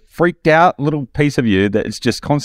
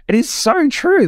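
emphatic agreement; slower than usual. Real, not acted. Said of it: "repeated emphatic agreement".

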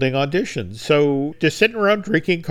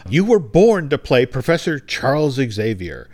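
a lightly raised, cheery pitch to the star; gushing colleague. Retold or imitated. Colleague teasing Patrick about the wheelchair photo, light cheery voice. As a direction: playfully sell him the part. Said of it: "And it's like".

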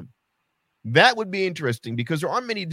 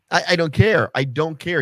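ordinary talk, nothing marked

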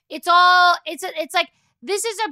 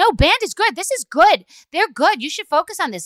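loud, high insistence to her daughter; insistent retort; 3 semitones higher, 4 dB louder than usual. Retold or imitated. Mom insisting to bored daughter, loud and high. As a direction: push back hard, louder.

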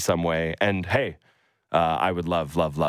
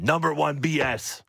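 put-on hoser Canadian accent; 7 semitones higher than usual. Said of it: "in his super hoser Canadian accent".

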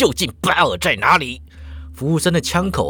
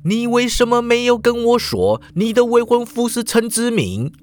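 angry; 8 semitones higher than usual. Acted. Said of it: "就怒道".

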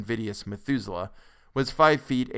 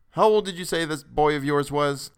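a store clerk asking, puzzled and a bit louder; lightly voiced clerk, curious; 4 semitones higher, 4 dB louder than usual. A narrator's reading. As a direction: press the customer with a curious question. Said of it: "demanded the clerk curiously".

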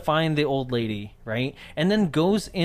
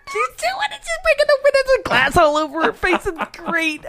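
gleeful squealing; 3 dB louder than usual. Pretend. Trees cheering as she breaks the window, squealing. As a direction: squeal with giddy, cackling delight.

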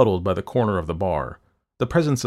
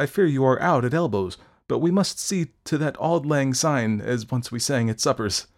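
high, loud, stammering overjoyed patter; flustered effusiveness; 7 semitones higher, 6 dB louder than usual. A narrator's reading. Doctor greeting Fettes while making excuses, flustered effusion. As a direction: babble politely while trying to escape.

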